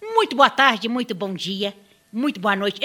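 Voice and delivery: showy ringmaster welcome. Acted. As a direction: greet the crowd like a circus host. Clown opens the show.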